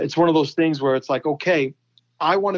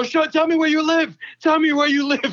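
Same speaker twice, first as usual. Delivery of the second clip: mock shrill, very high shouting; 12 semitones higher than usual. Retelling yelling into an Xbox microphone at an online player: imitating his own past yelling. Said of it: "I'm yelling into my, my Xbox microphone".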